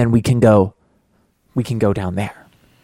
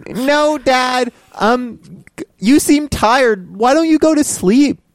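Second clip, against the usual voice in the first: put-on kid voice; 8 semitones higher, slower than usual. Kid character talks to dad.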